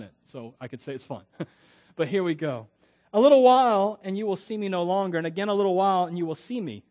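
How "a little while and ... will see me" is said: scripture reading. Acted. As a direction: read the verse out, punching the opening phrase. Reads scripture aloud.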